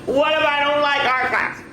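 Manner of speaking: put-on high, anxious fretting child voice; nervous worry. Baby Shark fretting before school, high and nervous. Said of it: "he thought".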